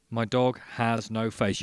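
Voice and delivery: loud, deliberate acted statement; emphatic announcement. Man telling barman about his faceless dog, emphatic. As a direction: declare it firmly as a fact.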